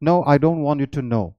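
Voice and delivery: slow, careful demo sentence; teacher demonstrating a sentence; slow example sentence. Shown as a demonstration. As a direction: read the example slowly. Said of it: "एक example मैंने दिया है".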